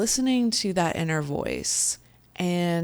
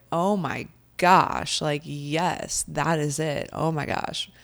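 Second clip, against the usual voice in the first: thrilled gasp. Retold or imitated. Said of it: "And I was like".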